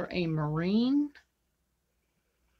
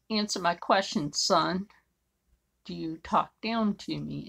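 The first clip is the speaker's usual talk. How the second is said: put-on firm and louder, like scolding a boy; stern demand; 4 dB louder than usual. Retelling how she put the pushy client in his place, a stern, louder demand. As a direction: lay down the law, calling him son.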